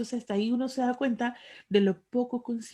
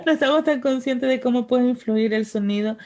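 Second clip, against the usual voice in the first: laughing; 3 semitones higher, 6 dB louder than usual. Real, not acted. Laughing while agreeing on voice.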